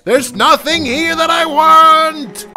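frustrated shout. Real, not acted. Searching a room in vain, frustrated shout. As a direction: shout the letdown out loud.

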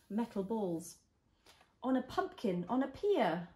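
gentle storybook reading; reading to a toddler. Acted. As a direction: read it like a bedtime story.

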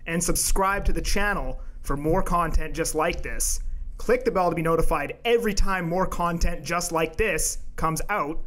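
measured podcast host intro delivery. Pretend. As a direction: announce it with deliberate, punched key words. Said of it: "Why are you talking like that".

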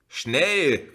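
called out high and loud; urgent call. A narrator's reading. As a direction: hurry everyone into the car. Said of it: "rief die Rotblonde". (drängend gerufen)

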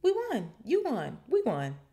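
high, loud celebratory shouts; Ron shouting. A narrator's reading. Friend thumps Harry on the back after winning, shouting. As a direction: cheer each phrase at full excitement. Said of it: "shouted Ron".

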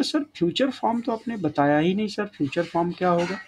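a hint of a curious student asking sir; imitating a pupil. Teacher voicing a pupil asking about the future form. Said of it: "आप बोलोगे".

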